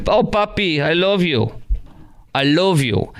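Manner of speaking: mock Latina accent, falling off; Kamala's fake Hispanic accent. Host shows how he'd describe her accent, lightly hammed Hispanic voice. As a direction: croon a put-on Hispanic accent. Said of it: "how I describe her accent".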